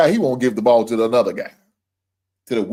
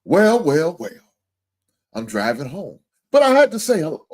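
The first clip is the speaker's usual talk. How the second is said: mocking read; 3 semitones higher than usual. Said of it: "Little bitch, you ain't shit".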